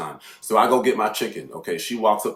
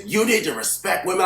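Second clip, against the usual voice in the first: high-pitched mock female protest; imitated angry woman; 10 semitones higher than usual. Woman yelling at the man behind her, indignant mimicry.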